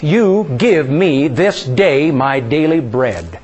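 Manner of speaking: very slow, personal declaration; slow confession. Shown as a demonstration. Pastor models a personal confession of faith, very slow. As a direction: savour each word as your own claim. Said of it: "you're making a confession of faith".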